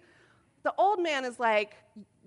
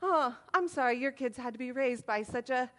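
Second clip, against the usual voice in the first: losing it; 3 dB louder than usual. Retold or imitated. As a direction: let sarcastic fury fly. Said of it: "To which then I lost it".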